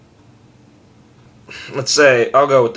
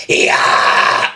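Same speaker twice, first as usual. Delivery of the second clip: powerful scream; 4 dB louder than usual. Shown as a demonstration. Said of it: "it's more like".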